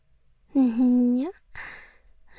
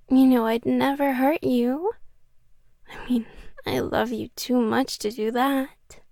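louder, sweetly menacing; yandere menace; 4 dB louder than usual. Acted. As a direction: turn possessive and threatening. Yandere reveals handcuffs, jealous.

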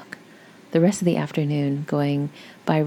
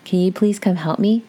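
mock yell; 3 semitones higher than usual. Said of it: "heard her yell out".

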